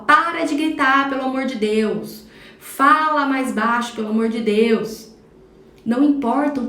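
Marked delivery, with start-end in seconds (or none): 0.1-5.1 put-on slow, louder exasperated parent telling a kid off; fed-up mom snapping at the noise; exasperated scolding. Mother scolding her shouting child, exasperated. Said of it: "você para tudo que você tá fazendo e fala".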